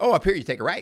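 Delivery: snappy, certain, quick, confident, very high voice. Retelling his wife giving driving directions: imitating Linda's quick confident voice. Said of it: "just as quick and confident as that".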